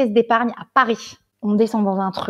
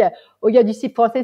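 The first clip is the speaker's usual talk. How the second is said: ordinary delivery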